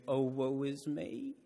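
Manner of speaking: drawn-out sarcastic sigh, slow; mock pity, slowly stretched out. Shown as a demonstration. Teasing a sulking friend, slow sarcastic sigh. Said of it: "sarcastically say to you".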